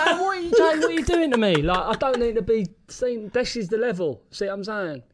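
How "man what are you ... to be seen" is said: retold protest. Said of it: "I'm like".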